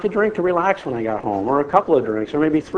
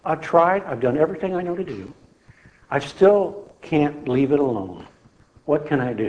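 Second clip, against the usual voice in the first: tearful prayer. Retold or imitated. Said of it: "in tears, I cried".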